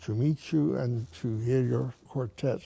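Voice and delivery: a hint of a Russian accent. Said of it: "this person said in a Russian accent".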